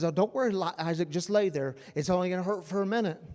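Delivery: a hint of a father calming his son, lightly voiced; mock soothing Abraham. Abraham to his son Isaac on the mountain, lightly soothing. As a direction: lightly soothe him, barely out of the preaching voice.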